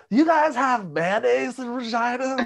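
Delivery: high, slow goofy announcer voice; Harry Carey style. Retold or imitated. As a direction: drawl it out like a goofy old baseball announcer. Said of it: "Totally Harry Carey style".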